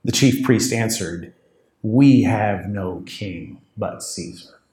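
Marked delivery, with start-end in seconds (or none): 1.8-4.6 slow and weighty. Shown as a demonstration. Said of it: "how significant that sentence is".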